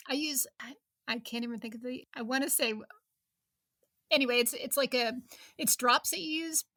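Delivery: halting, stumbling over words; stuttering. Real, not acted. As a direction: trip over the words, searching for a name. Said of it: "stuttering because I can't remember the name of it".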